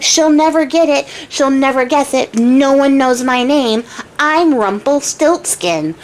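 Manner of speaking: secret chant slowing into the name; lightly acted gleeful boast; mock gloating. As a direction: crow it, stretching out the last phrases. Little man gloats while dancing.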